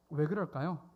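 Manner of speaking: ordinary talk, nothing marked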